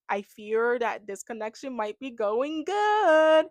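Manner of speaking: slow, hammed-up ominous line; mock dread. Vlogger joking that the couple is going too well, slow mock dread. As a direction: play it like a doom prophecy, slowly.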